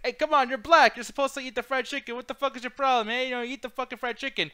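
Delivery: imitating the racist guy pushing fried chicken, blustering; racist character. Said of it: "and he's like".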